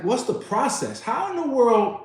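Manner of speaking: high, exasperated retold yell. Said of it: "this is where I'm yelling".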